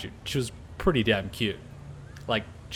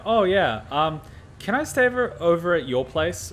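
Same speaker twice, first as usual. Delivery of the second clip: put-on higher, sweet girlish ask; imitating the girl; 5 semitones higher than usual. The girl phoning him to ask to stay over, in a mock higher girly voice. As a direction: lightly voice her asking to stay over.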